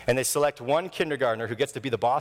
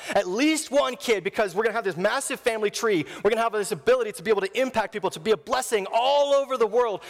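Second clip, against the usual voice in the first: excited Abram; 6 semitones higher than usual. Pretend. Abram rejoicing at God's promise, excited. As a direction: pitch climbing higher line by line, eager.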